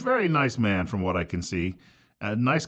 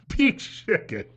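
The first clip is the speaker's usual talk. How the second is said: mock disbelief; 8 semitones higher, much slower than usual. Real, not acted. Mocking the writer's phrase.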